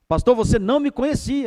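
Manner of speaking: emphatic confession. Retold or imitated. Man gripping the pastor's hand insists, loud and high. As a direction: blow it up big, insisting. Man's words repeated, bigger.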